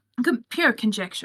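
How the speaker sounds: ordinary delivery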